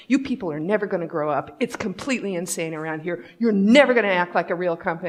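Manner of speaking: retold agitated rant, hitting NEVER; quick, exasperated mock outburst; worked-up rant. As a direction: imitate a fed-up colleague ranting fast. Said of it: "say that again just a little calmly".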